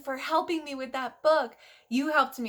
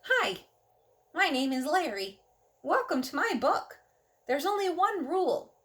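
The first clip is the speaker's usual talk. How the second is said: a hint of a cheerful cartoon host, a bit higher; lightly voiced Larry; 5 semitones higher than usual. Reading to children, a lightly voiced cheerful Larry. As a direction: greet the kids as a friendly little creature. Larry the book character talks.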